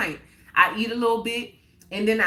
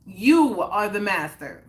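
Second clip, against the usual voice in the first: slow, louder and emphatic on YOU; a little louder; 2 semitones lower than usual. Shown as a demonstration. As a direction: drive it home to the chat, slowly and louder. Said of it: "Let me say it a little louder".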